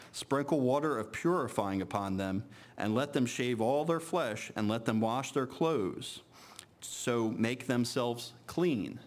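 measured, solemn Bible reading voice; scripture reading. Acted. Preacher reading Leviticus-style passage to congregation, solemn and measured. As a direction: read the passage out to the congregation with weight. Reads scripture aloud in church.

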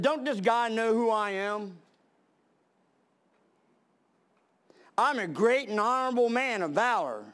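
mildly irate, imitating an offended big shot; mock indignation. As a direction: act out wounded self-importance, not shouting. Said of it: "He was irate".

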